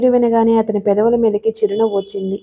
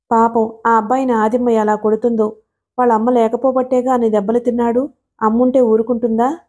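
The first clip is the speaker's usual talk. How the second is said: plain reading voice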